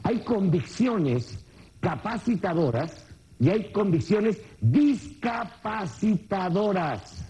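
drawn out very slowly, word by word; the key point dictated slowly to the audience; slow emphasis. Shown as a demonstration. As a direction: spell out each convicciones so it sticks. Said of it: "Esto es importantísimo que lo anote".

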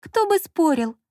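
high, scoffing retort; a high, snorting answer to her partner. Acted. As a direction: toss it off with a scoff. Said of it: "фыркнула Лола".

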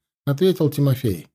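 usual speaking voice

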